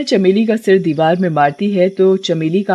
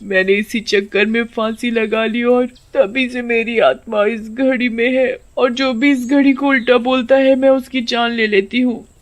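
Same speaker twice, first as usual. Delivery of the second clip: slightly raised, plaintive spirit voice; lightly voiced mournful ghost; aggrieved witch; 4 semitones higher than usual. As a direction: recount your tragedy with bitterness. Witch tells her tragic tale.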